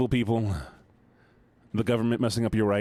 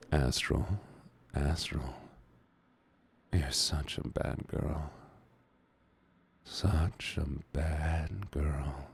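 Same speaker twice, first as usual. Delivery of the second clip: low, soft, slow playful reproach; mock scolding; 6 semitones lower, 7 dB quieter, slower than usual. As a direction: scold quietly, drawing the words out. Mock scolding a fangirling chatter.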